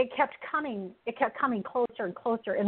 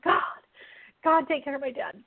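higher-pitched, mildly urgent pleading; retold frantic prayer; 5 semitones higher than usual. Daughter pacing and praying for her dad, mildly frantic. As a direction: plead upward, repeating the name between requests. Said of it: "I was just frantic".

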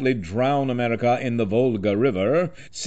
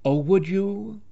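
high-pitched impression of a famous voice, rising; Carol Channing; 8 semitones higher than usual. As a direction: imitate her unforgettable voice in a high register. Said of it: "whispered back in that unforgettable voice".

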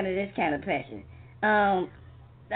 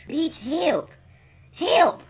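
yelling for help; 7 semitones higher, 5 dB louder, slower than usual. Acted. Calling for help.

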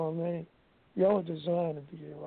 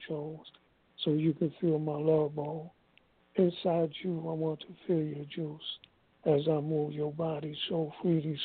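poem recitation. Acted. Recites his own sensual poem.

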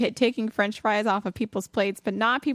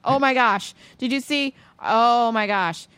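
loud gasp of shock at the post; startled oh my gosh, drawn out; surprised; 2 semitones higher, 4 dB louder, slower than usual. Real, not acted.

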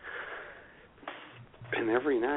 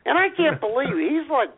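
amused; 8 semitones higher than usual. Real, not acted. Amused after Profucius joke.

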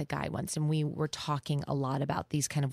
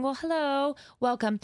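gentle welcome; 7 semitones higher than usual. Shown as a demonstration. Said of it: "And just saying".

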